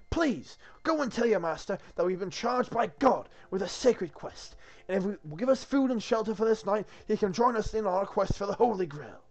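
high, loud, formal kingly appeal; earnest King Arthur. Acted. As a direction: petition the castle guard as a noble king.

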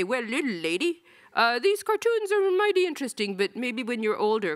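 high, hammed-up cowboy accent; imagined editor talking down in a mock cowboy accent. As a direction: play the folksy cowboy editor. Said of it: "like, cowboy accent".

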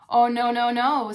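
firm loud no; loud refusal. Acted. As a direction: shout the no's. Wolves refuse the pig loudly.

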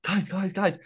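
amateur British accent impression; attempted British accent. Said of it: "I don't know how to do a British accent".

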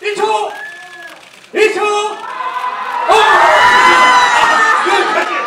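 loud, high countdown calls; excited shout. Real, not acted. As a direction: cheer them on to the end. MC counting down eye contact.

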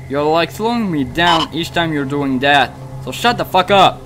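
annoyed scolding. Real, not acted. Scolding someone for slowing them down.

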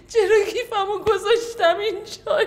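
crying. Acted. Woman lost bag, breaks down.

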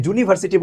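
জুনিভার্সিটি with a full hard J at the start; overdone hard J. Shown as a demonstration. Teacher warns learners off it, জুনিভার্সিটি with hard J. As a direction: overdo the opening of জুনিভার্সিটি into "joo". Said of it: "জুনিভার্সিটি বলেন না".

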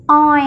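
oi drawn out slowly as one vowel sound; isolated vowel. Shown as a demonstration. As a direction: model the vowel oi, stretched. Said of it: "nguyên âm oi".

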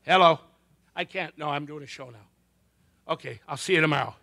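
hushed, hurried mock phone aside; pretend phone call. Comic takes a call mid-show, hushed pretend aside. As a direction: take a fake call discreetly.

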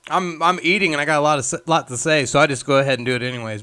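talking with mouth full. Real, not acted. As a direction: speak through a bite of brownie. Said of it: "talk with your mouth full".

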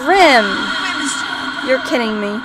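protesting shout. Pretend. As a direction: cry out in protest. Protesting after Reaper refuses.

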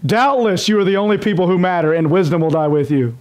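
mildly mocking, a touch of scorn on "Doubtless"; sarcastic reading. Shown as a demonstration. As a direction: read it lightly sarcastic, as if flattering. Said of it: "let's read it in a sarcastic tone".

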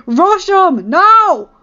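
loud, high battle command; barked order. Acted. Derek ordering the team to attack, barking. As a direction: bark it like a gang leader. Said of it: "Derek barked at the team".

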